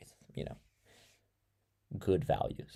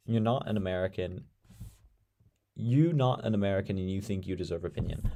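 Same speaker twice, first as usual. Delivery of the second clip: attempted British accent, a little lower; 3 semitones lower than usual. Shown as a demonstration. Streamer obliging a viewer's dare despite doubting it, attempted British accent. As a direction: have a quick go at a British accent. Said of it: "Do your best British accent".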